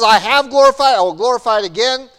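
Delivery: voice of God. Acted. God answering Jesus from heaven, booming proclamation. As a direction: declare it loud and high from heaven. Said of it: "And so God says".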